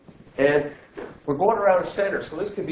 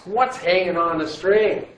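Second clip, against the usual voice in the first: slow, deliberate question as students should ask it; modelling the question; 4 semitones higher, 5 dB louder, slower than usual. Shown as a demonstration. Teacher showing the class the question to ask, slow and deliberate. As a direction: spell out What's slowly, hanging on each word. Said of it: "You're supposed to ask".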